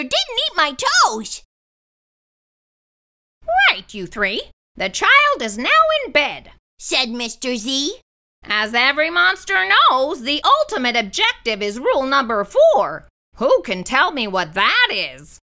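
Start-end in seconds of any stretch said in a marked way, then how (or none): 3.7-15.4 monster teacher voice. A narrator's reading. Mister Z voiced.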